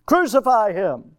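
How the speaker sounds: loud mob cry. Acted. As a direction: call for his death. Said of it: "They're crying".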